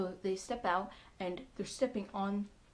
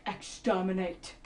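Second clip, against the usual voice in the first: Dalek-style exterminate; 6 dB louder, slower than usual. Retold or imitated. Doctor shouts the Dalek word.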